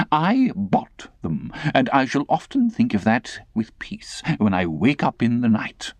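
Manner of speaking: high, fussy lady's voice; affected lady. Acted. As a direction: complain like a fussy old aunt.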